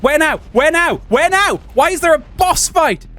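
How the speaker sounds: lost and flustered; high panicked repetition. Real, not acted.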